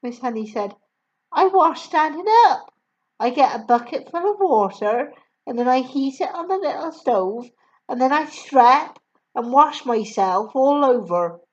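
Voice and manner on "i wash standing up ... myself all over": put-on higher, louder gentle young woman; kind teacher voice. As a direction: warm young teacher reassuring. Miss Honey voiced.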